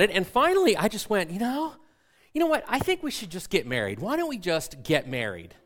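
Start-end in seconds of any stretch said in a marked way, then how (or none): 1.3-5.5 high-pitched, impulsive outburst settling into insistence; reenacted exasperated sudden idea; heated blurt. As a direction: blurt it out mid-argument, starting high. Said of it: "the volume is raising because now we're angry".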